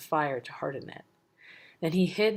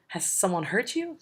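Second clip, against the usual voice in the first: yelled; 4 semitones higher than usual. Acted. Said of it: "they yelled".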